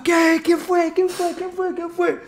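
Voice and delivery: dad storming in, asking over and over; angry father. Retold or imitated. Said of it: "venía mi viejo re encacado".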